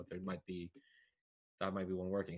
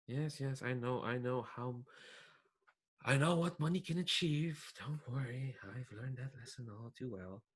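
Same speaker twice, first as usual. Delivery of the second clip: lightly voiced scheming villain, quiet and unhurried; a hint of a smug schemer talking down to his pet; soft, measured villain confiding in his bird; 2 semitones higher, 5 dB quieter than usual. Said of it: "he'll just say, like".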